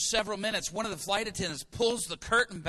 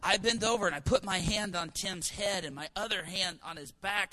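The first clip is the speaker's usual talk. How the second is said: ordinary delivery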